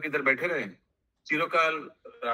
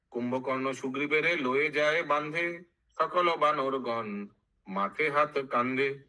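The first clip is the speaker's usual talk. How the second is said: measured chanted verse with drawn-out line endings; sing-song Bengali verse recital; verse recitation; slower than usual. Acted. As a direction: intone it like epic scripture.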